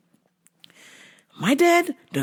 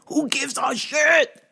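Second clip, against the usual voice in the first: higher, slow who gives a shit; exasperated outburst; 5 semitones higher, slower than usual. Retold or imitated. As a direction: throw it out defiantly. Ranting at dad.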